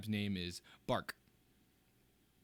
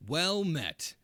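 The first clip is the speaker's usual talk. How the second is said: brash captain greeting, laughing through; 3 semitones higher, 6 dB louder, slower than usual. Acted. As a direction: redo the bold captain intro. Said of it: "I'm trying to get better at it".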